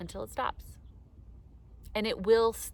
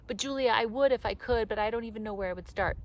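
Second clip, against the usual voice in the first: mock whiny objector; 2 semitones higher, 3 dB louder, faster than usual. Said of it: "imagined listener objects".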